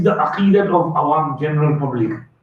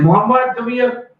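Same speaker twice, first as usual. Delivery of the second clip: mother calling; 4 semitones higher than usual. Retold or imitated. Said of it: "And mom said".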